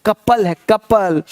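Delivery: कपल said slowly and low; कपल drawn out slow, kap-al, as the right reading; कपल said slowly, with a short a. Shown as a demonstration. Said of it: "कौपल नहीं है".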